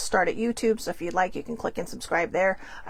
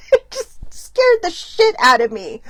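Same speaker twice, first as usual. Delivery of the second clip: 1 scared shriek then yelling; 9 semitones higher, 7 dB louder than usual. Retold or imitated. Retelling a big scare.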